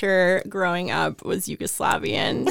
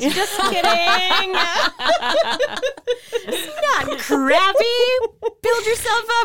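high, slow words through laughter; laughing; 13 semitones higher, slower than usual. Real, not acted. Guest backpedaling on a podcast joke, laughing high through the words. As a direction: giggle the words out as you backpedal. Teasing about crappy podcast.

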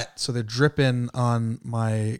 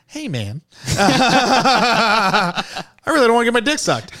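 high, loud, laughing through the words; laughing mock protest; 9 semitones higher, 5 dB louder, slower than usual. Cousin declining the boss's offer, laughing high. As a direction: squeal it out, cracking up.

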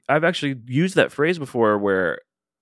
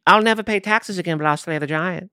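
high, hammed-up medieval British accent; medieval British mercenary; 9 semitones higher than usual. Mock giant slayer in a medieval British accent demanding his reward. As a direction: play a pompous medieval British knight for hire. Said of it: "why he's from medieval British".

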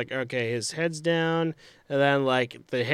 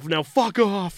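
mock ref; 6 semitones higher, slower than usual. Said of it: "you can hear the ref go".

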